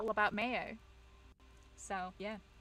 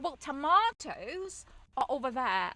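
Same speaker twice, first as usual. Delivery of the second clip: louder, slow mock correction, leaning on "tomatoes"; pointed correction; 5 semitones higher, 8 dB louder, slower than usual. Shop worker directs Canadian friend, slow pointed correction. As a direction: imitate someone pointedly correcting an accent, slowly. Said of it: "correct her on her accent".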